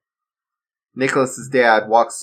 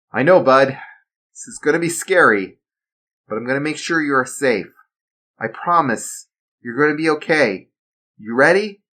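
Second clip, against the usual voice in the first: raised father's voice, a touch comforting; reassuring dad; 5 semitones higher, 3 dB louder than usual. Acted. Father promising his frightened son safety, reassuring. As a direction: promise him he'll be fine.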